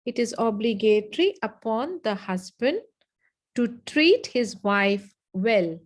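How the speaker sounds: measured dictation, phrase by phrase; slow repeat. Shown as a demonstration. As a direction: spell it out slowly for note-takers.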